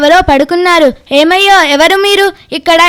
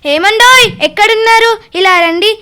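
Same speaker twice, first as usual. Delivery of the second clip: calling out; 4 semitones higher than usual. Acted. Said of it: "ఏందే గట్టిగా అరుస్తున్నావు".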